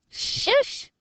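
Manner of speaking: hushed shush; whisper. A narrator's reading. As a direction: silence him quickly. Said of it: "whispered Dinking".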